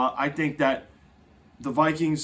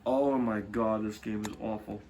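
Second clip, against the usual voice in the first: disgusted; 6 semitones lower, 5 dB quieter than usual. Real, not acted. Dreading the Panthers-Bears game.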